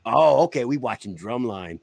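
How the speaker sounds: cheerful unbothered buddy voice; lightly voiced tentmate; imitating Jenkins. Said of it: "He would go".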